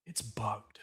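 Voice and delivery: unvoiced whisper. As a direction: whisper it secretly. Confiding bug warning.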